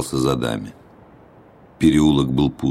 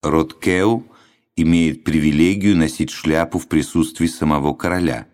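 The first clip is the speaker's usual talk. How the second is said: proud proclamation; 2 semitones higher than usual. Acted. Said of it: "гордо провозгласил".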